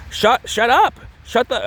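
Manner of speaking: high-pitched impression of an actor getting mad; mock tough-guy outburst. Man fighting with his fling, hammed-up high anger. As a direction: act tough in a squeaky-high voice. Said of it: "my best impression of him".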